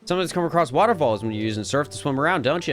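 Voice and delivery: put-on folksy, lively Southern accent; Southern Gyarados. Gyarados teaching a young'un Waterfall, Southern accent. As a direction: teach it like a down-home Southern mentor. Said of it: "why they made Gyarados Southern".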